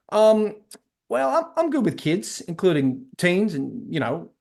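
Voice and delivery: an awkward, faked Texan twang; terrible Texan accent. Dean fumbles his answer to the principal, in a terrible Texan accent. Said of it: "the main guy has a Texan accent".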